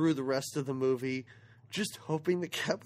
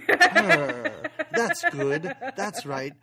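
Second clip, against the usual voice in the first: talking cat; 7 semitones higher, 4 dB louder, much slower than usual. Retold or imitated. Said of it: "Molly's petting him and he goes".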